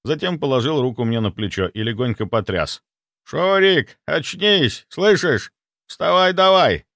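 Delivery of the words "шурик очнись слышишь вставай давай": loud, high call to wake him; urgent call. A narrator's reading. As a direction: rouse him, insistent. Grandfather shaking grandson awake.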